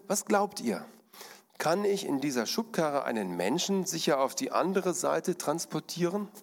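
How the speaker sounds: a tightrope artist challenging onlookers; showman asking the crowd. Acted. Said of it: "Dann fragte der Mann in die Runde".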